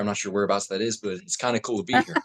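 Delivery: casual General American chat; American accent. Shown as a demonstration. Actor ad-libs about his demo on request, American accent. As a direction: keep chatting as an American. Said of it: "American accent, cool. Dan in the American".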